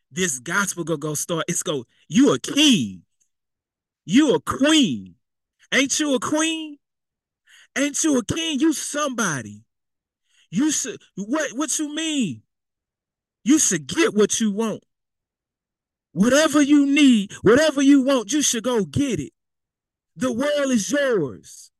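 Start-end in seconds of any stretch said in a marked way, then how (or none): 2.1-9.6 high-pitched, conniving hype-up; Jezebel. Acted. Jezebel flattering Ahab as a king, sneaky encouragement. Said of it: "she's coming with a very sneaky, conniving encouragement". 10.5-21.7 high-pitched, conniving hype-up; Jezebel. Acted. Jezebel flattering Ahab as a king, sneaky encouragement. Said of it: "You see how Jezebel talking to, uh, Ahab?".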